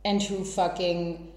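tipsy, slightly slurred talk. Real, not acted. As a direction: speak like you've had too many. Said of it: "severely drunk".

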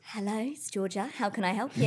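polite receptionist phone greeting. Acted. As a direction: answer the call in your work phone voice. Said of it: "What about the phone voice?".

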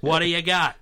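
loud movie-star impression; John Wayne. Actor asking the director for his line, John Wayne impression. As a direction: ask it in a big cowboy-star voice. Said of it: "All right, John, we're gonna need you".

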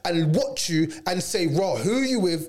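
sarcastic what-do-you-want reply. Retold or imitated. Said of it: "you're like".

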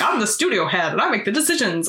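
lightly mocked studio head, swooping pitch; Mister Simpson. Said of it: "every time he speaks is so funny to me".

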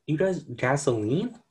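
put-on an old president baffled by gasoline; mock incredulous. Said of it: "It's like".

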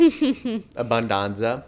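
slow, loud mock Italian exclamation; hammed-up Italian. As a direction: savour it like a proud chef. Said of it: "but it is Italian".

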